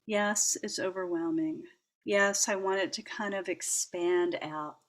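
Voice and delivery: calm yourself down gently, almost under the breath; soothing self-talk. Retold or imitated. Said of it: "I was saying to myself".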